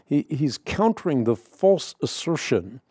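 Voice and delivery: "false" given clear weight as the key word; stress on false. Real, not acted. Host restating his point to listeners, stress on "false". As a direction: restate it, landing firmly on "false". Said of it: "real emphasis on that word false".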